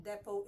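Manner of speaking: depot with the final T pronounced; wrong depot with sounded T. Shown as a demonstration. Teacher warning learners off a mistake, depot with sounded T. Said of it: "is not depot".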